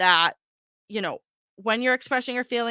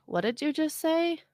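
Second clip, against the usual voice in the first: astonished; 7 semitones higher, 5 dB quieter than usual. Retold or imitated. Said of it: "it's like".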